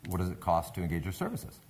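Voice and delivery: mildly hushed, courteous question; very polite. Retold or imitated. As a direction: ask deferentially, keeping it low and gentle. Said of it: "very politely".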